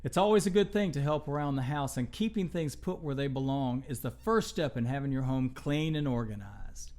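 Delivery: quiet, fast, gentle chatter to listeners; soft host talk. Real, not acted. Host winding down for young listeners, softly. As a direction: ease into a hushed aside.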